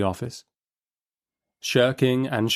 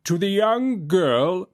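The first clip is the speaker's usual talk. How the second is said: high, slow judge's voice; hesitant judge; 9 semitones higher, slower than usual. A narrator's reading. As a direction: ease into the ruling. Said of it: "proceeds the Chancellor".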